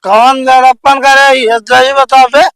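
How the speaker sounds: put-on slurred drunk arguing; tipsy and belligerent; town drunk. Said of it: "दारू पिए है का?".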